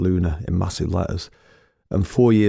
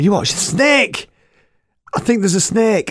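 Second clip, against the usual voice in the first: mock alarm; 13 semitones higher, 4 dB louder, slower than usual. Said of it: "I shouted".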